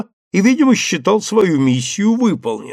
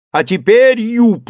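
beside himself, calling up the tree, higher; excited shout; 6 semitones higher, 4 dB louder, slower than usual. A narrator's reading. Legrand shouting excitedly up to Jupiter in the tree. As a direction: shout up to him, almost losing control. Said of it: "закричал Легран вне себя от волнения".

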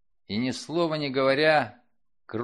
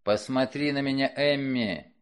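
commanding. Acted. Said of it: "он приказал".

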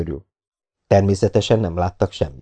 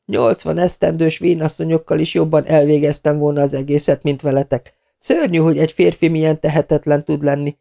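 furious scolding; 8 semitones higher than usual. Acted. Furious woman berating men.

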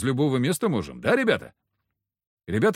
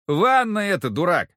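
scolding shout; 7 semitones higher, 6 dB louder than usual. A narrator's reading. Zakhar scolding Foka.

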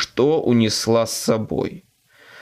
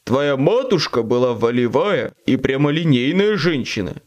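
creaky demon voice. Acted. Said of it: "проскрипел Шонзи".

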